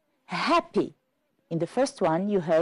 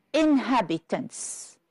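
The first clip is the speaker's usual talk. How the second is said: "Inhabitants" drawn out slowly for counting; slow, measured "Inhabitants", each syllable audible; syllable demonstration; slower than usual. Shown as a demonstration. Teacher asking class to count syllables, "Inhabitants" said slowly. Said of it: "How many syllables?".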